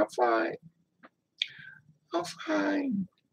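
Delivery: put-on very high, swooping, tearful voice, "fine" stretched. Retelling answering an aunt who asks if all is okay: retelling own crying. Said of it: "And I'm crying".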